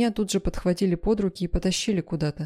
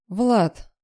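high, loud cry of a name; urgent shout; desperate call; 4 semitones higher, 5 dB louder than usual. A narrator's reading. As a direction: call out to someone you are kept from. Narrator struggles to run back to him.

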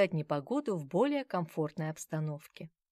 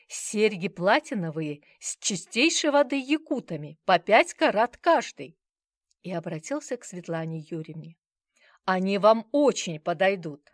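pitching salesman; 7 dB louder than usual. Acted.

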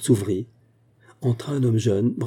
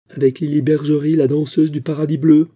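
indignant reveal; 5 semitones higher, 6 dB louder than usual. Acted. Indignant wife naming the rival.

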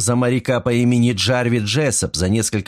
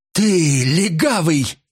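shouted insult; 8 semitones higher, much slower than usual. A narrator's reading. Mrs Creel shouting at the detective, a high slow cry. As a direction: fling the insult at him. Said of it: "закричала она".

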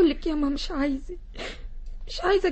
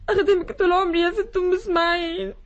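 tearful plea. Acted. Khadija begs the lady.

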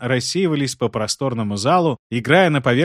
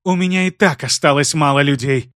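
breathing heavily; heavy breathing between words; 2 semitones higher, 4 dB louder than usual. Acted. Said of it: "тяжело дыша произнесла Айсель".

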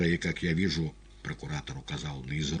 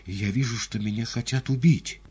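тревожно; 7 semitones higher, 6 dB louder than usual. A narrator's reading. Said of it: "голос его стал тревожен".

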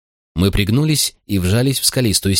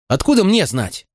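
blurted; 11 semitones higher than usual. A narrator's reading. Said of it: "выпалил я".

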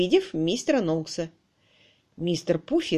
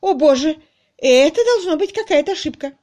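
high, loud, distraught lady; horrified; 8 semitones higher, 7 dB louder than usual. A narrator's reading. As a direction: plead that it cannot be true. Niece horrified by the news.

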